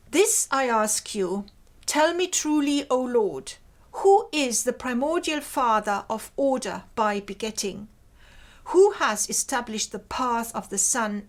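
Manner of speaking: solemn, measured reading of a translated hymn; poem reading. Acted. Lecturer reads the hymn's translation to students, solemn verse reading. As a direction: read it like an ancient prayer.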